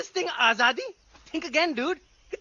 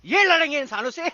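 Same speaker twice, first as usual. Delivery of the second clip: mocking disbelief; 2 semitones higher, 3 dB louder, much faster than usual. Repeats the scoff, louder. (खिल्ली उड़ाता, ऊँचे सुर का सवाल)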